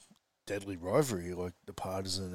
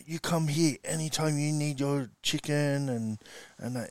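hearty, a bit louder and higher; friendly butcher; 6 semitones higher, 4 dB louder than usual. Retold or imitated. Butcher warmly inviting the coach back, hearty and loud. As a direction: welcome him like an old friend. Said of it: "And then he goes".

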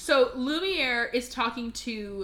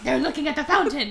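louder, mock-outraged jealous echo; jealous Fifi; 3 semitones higher, 5 dB louder, faster than usual. Fifi overhearing the date story, mock-jealous outburst. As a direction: repeat it like a scandalised girlfriend. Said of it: "and Fifi's like".

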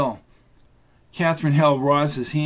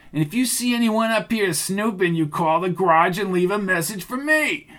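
higher, hard-edged threat, every word spelled out; a gangster voiced with a raised menacing tone; 5 semitones higher than usual. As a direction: lean on him like a thug giving orders. Thug threatening Roy.

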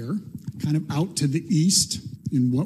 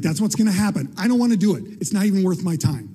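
higher-pitched mock complaint; petulant protest; 4 semitones higher, faster than usual. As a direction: argue back like a put-upon prophet. Jonah acted arguing with God.

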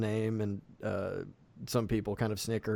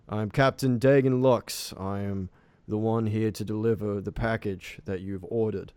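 captain; 5 dB louder than usual. Acted. Captain introduces himself to the village elder, lightly voiced formal captain. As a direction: present yourself formally as a ship's captain. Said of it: "The captain goes".

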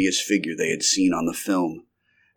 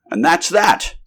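higher-pitched, mild exclamation; resigned exclamation; 8 semitones higher, slower than usual. A narrator's reading. Doctor taking off his gas mask after defeat, mild exclamation. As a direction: declare the matter over. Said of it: "cried the doctor half an hour later".

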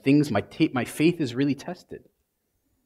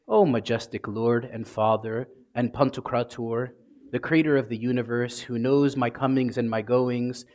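robotic formal prayer; 6 semitones lower than usual. Retold or imitated. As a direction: recite it like a grand empty formula. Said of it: "if you want to be a robot in your prayer".

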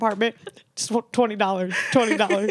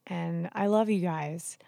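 hushed aside; 3 semitones lower, 6 dB quieter, slower than usual. Real, not acted. Affectionate aside to New York friends.

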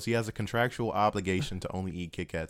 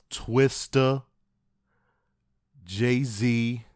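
mock announcer; 3 semitones higher, 6 dB louder, much slower than usual. Mock announcing random featured artists.

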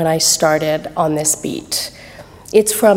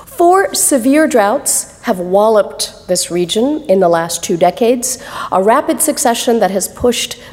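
story narration; 3 semitones higher than usual. Acted. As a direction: read it like a storyteller, letting the images land. Reads her story excerpt aloud.

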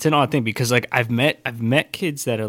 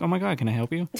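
pitched way up, eager shop clerk; customer service voice; 7 semitones higher, 4 dB quieter, faster than usual. Shown as a demonstration. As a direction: go up high to greet a customer. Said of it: "my whole voice just kinda goes up an octave".

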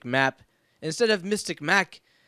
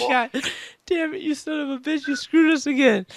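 mock outrage; 9 semitones higher, 4 dB louder than usual. Host mock outrage at caller.

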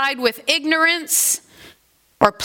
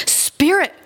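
appalled; 6 semitones higher than usual. Acted. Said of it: "Scrooge startled back, appalled".

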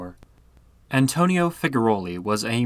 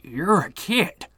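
high, slow stunned stammer; shocked stammer; 8 semitones higher, slower than usual. Acted. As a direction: gasp it out in disbelief. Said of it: "the man stammered".

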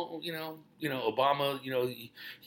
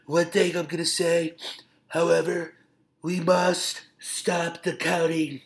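presidential impression; 3 semitones higher than usual. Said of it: "Angry Orange is just going crazy".

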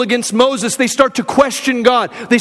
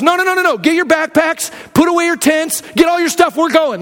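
urgent rallying; 5 semitones higher than usual. Acted. Caleb rallying the spies.

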